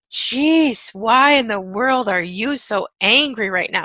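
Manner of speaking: lightly voiced exasperation; exasperated onlooker. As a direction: act out someone taken aback. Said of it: "And everyone's like".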